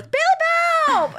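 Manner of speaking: loud, gushing Southern holler; hammed-up Southern exclamation; friend's Southern accent. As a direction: call out in a big Southern accent. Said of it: "She has the best accent".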